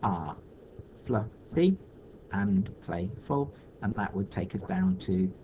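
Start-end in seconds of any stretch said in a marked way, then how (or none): 0.0-3.5 "Cats are fluffy and playful" slow, with gaps; measured read-out. Shown as a demonstration. Teacher reading the corrected second line, "Cats are fluffy and playful" slowly in pieces. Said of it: "the second line reads".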